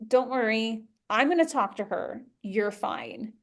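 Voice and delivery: soft reassuring voice fading to a whisper; calm the child down gently; soothing the inner child, softly down to a whisper; soothing inner talk. Retold or imitated. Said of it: "in my own brain, I was like".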